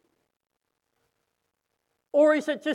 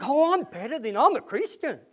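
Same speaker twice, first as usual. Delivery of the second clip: self-righteous mock; 2 semitones higher than usual. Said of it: "and think".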